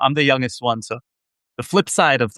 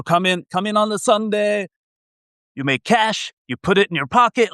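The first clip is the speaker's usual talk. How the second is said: retold immigrant dad in a much higher, heavy Israeli accent; 8 semitones higher than usual. Son imitating his immigrant dad's pep talk in a heavy Israeli accent. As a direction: mimic your dad's Israeli accent, pitched high. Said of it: "in a heavy Israeli accent".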